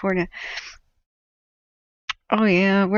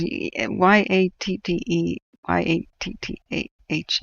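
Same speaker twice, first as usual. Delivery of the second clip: slow spelling. Shown as a demonstration. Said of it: "spelling it out".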